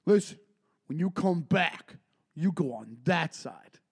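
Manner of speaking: loud, slow deliberate warning; tough-guy warning. Retold or imitated. Bar guy warning the narrator where to walk, loud and slow. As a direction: lay down the law. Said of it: "stops me in mid-shuffle and goes".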